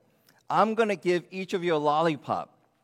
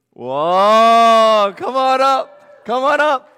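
excited shout; 8 semitones higher, 16 dB louder, much slower than usual. Real, not acted. Excited call to child.

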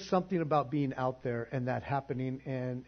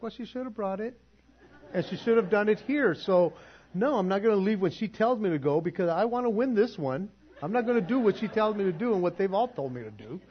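defiant rant; 7 semitones higher, 5 dB louder than usual. Retold or imitated. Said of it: "It's like".

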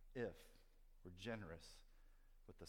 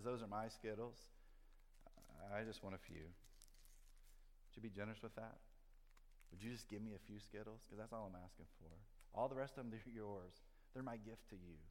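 gentle God; 6 dB quieter than usual. Shown as a demonstration. Preacher giving God's true words to the church, soft and tender. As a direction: coax it quietly like a generous father. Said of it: "God says".

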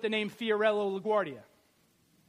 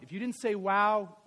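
usual speaking voice

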